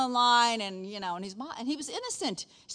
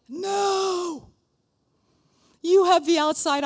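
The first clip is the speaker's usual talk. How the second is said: loud firm no; 8 semitones higher, 10 dB louder, much slower than usual. Retold or imitated. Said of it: "and I'm like".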